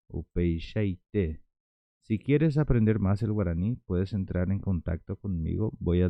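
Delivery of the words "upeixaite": slow "Upeixaite", drawn out to a final "té"; model pronunciation. Shown as a demonstration. Teacher modelling así mismo in Guaraní, slow "Upeixaite". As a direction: stretch "Upeixaite" with sh, landing on "té". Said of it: "Entonces sería upeixaite".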